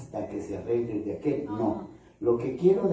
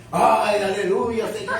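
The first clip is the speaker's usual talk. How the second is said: mock joyful; 7 semitones higher, 4 dB louder than usual. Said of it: "cambio mis sentimientos".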